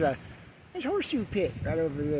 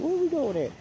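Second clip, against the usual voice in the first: tag; 13 semitones higher than usual. Acted. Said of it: "and he said".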